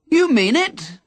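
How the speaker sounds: high, eager call upward; calling back. Acted. Young man calling up to Henry, eager call. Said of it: "the man called back".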